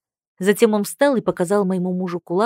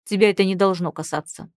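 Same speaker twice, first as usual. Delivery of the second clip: sharp reply; 3 dB louder than usual. Acted. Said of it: "резко ответил муж".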